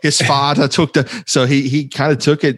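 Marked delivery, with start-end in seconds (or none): 0.0-1.2 lightly put-on Dutch accent; a touch of silly fake Dutch; mock Dutch accent. Co-host imitating the odd man on TV, light mock Dutch accent. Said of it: "that accent like that".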